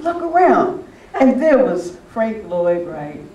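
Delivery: sudden amazed alert to look; astonished. Retold or imitated. Friend spotting Frank Lloyd Wright nearby, astonished. Amazed whisper-urge at restaurant table.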